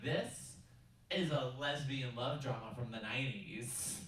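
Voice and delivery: slow, careful clerk spelling it out; earnest clerk recommendation. Retold or imitated. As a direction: lean on each word like a helpful clerk. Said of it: "And she's like".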